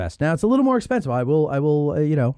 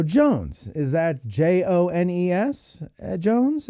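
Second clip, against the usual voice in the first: spelling the name; 6 semitones higher, slower than usual. Retold or imitated. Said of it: "I go".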